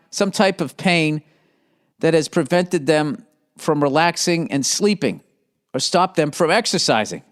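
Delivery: host reading ad copy. Acted. Reads sponsor ad aloud.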